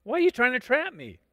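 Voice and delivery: Jesus confronting the Pharisees, calling them out. Acted. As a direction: call out their trick in front of everyone. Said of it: "He just calls them out in front of everybody".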